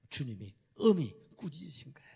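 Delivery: unvoiced whisper; hushed whisper to the church. Real, not acted. Whispered narration.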